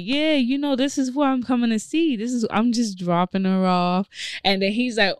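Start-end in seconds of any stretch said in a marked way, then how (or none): 0.0-4.1 imitating him.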